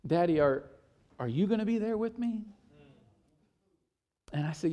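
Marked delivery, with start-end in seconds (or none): 0.1-2.4 put-on timid child. Daughter voiced, timid.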